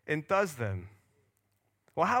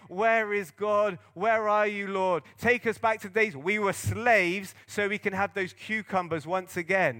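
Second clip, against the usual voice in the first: mock whining; 2 semitones higher than usual. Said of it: "And you're saying".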